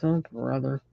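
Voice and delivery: softly sighed "oh, brother"; exasperated sigh as God; weary sigh. Retold or imitated. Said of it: "sighs and says".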